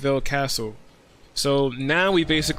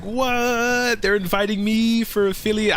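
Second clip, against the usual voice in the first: higher-pitched, mock-astonished what; retold disbelief; 6 semitones higher than usual. Streamer retelling their reaction to an affiliate invite, astonished. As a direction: act out your amazed reaction to an unexpected invite. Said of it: "I was like".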